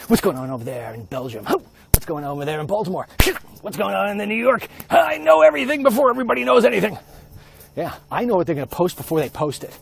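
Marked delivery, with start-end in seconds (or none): 3.6-7.0 rising, louder boasting; excited boast. Real, not acted. Vlogger boasting to viewers, excited and loud. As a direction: crow about knowing everything first. Bragging about knowing news first.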